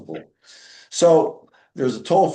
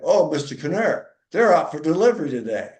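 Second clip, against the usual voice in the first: higher, bright phone-desk voice; eager receptionist; 3 semitones higher than usual. Retold or imitated. Young lady at the foundation answering Dan on the phone, eager and higher. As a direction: play the chirpy young lady taking the call. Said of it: "Comes back".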